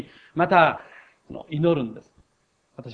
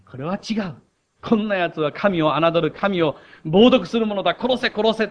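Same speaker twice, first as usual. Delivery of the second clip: mock angry scholars; 3 semitones higher, 3 dB louder than usual. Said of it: "とですね、言ってしまうのです".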